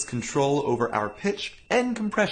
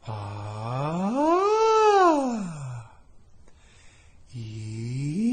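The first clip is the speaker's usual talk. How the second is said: breathy pitch slides; 9 semitones higher, 4 dB louder, much slower than usual. Shown as a demonstration. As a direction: glide each vowel up the whole range, breathy. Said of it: "from your lowest pitch to your highest pitch while decompressed".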